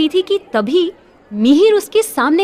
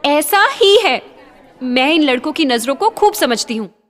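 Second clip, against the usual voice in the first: insistent. Acted. Juhi insisting.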